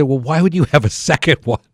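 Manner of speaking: high, loud, laughing through the question; half-laughing, half-appalled; laughing disbelief. Retold or imitated. Asking his friend why he drank a second beer, laughing in disbelief.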